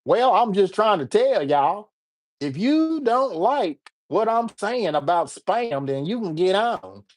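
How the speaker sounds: put-on slow, drawn-out send-up of own American accent; own accent exaggerated. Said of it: "I'll even do my accent".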